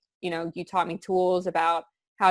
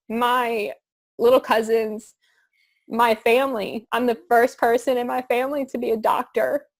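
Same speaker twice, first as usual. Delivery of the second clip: teary-eyed; 4 semitones higher than usual. Real, not acted. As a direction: push through the emotion. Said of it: "this is gonna make me teary-eyed".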